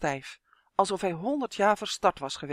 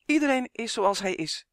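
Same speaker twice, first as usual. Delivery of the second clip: higher, raised voice; quick call; 5 semitones higher, 4 dB louder than usual. A narrator's reading. Justin interrupting the bickering fairies, quick call. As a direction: jump in hastily to head off a quarrel. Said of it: "riep hij vlug".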